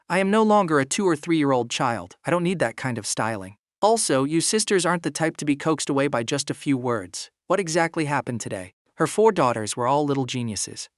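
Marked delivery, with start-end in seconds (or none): 0.1-8.7 flat tone. Acted. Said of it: "her tone completely flat".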